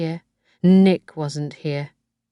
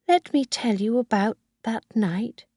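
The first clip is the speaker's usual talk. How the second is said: put-on lightly raised old mother about to confess; Missus Harvey, confiding; 6 semitones higher than usual.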